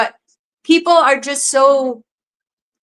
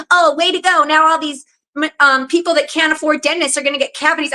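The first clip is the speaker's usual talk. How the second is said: higher-pitched imitation of a complainer; mock indignant commenter; 3 semitones higher than usual. Imitating commenters upset about fluoride removal, mock indignant. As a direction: mimic a sarcastic online scold.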